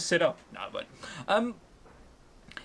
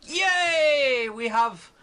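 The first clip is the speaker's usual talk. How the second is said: loud high mock cheer; hammed-up crowd cheer; 5 semitones higher, 4 dB louder, much slower than usual. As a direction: cheer like a giddy kid. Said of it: "everyone else will just be".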